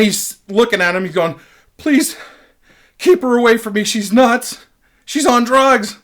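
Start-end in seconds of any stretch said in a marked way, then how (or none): 1.8-6.0 high, imploring victim voice; put-on desperate plea, pitched up; mock pleading. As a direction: imitate a battered man begging for help. Acting beaten roommate pleading to cops.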